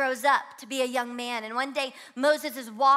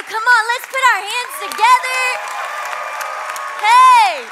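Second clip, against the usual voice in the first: loud, higher hype call to clap; big cheering shout, much louder and higher; crowd-rousing shout; 10 semitones higher, 12 dB louder than usual. Real, not acted. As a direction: fire up the crowd to applaud. Pastor rallying crowd to applaud.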